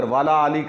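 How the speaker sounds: "وَعَلَىٰ آلِ" run together as "wala aali"; mistaken recitation. Shown as a demonstration. Teacher warns the meaning goes wrong, demonstrating the mispronunciation. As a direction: say "وَعَلَىٰ آلِ" without the separate "a" of ala. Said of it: "کہیں گے تو پھر بھی معنی غلط ہے".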